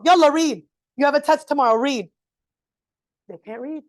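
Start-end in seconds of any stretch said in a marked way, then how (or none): 0.0-2.1 louder, pushy command; impatient parent. Retold or imitated. Parent pushing the kid to read, impatiently. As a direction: hurry the kid along. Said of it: "You open up the reading book".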